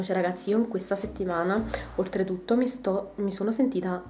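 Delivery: congested, blocked nose; stuffy cold voice. Real, not acted. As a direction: speak through a heavy cold. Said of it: "raffreddore a quantità industriale".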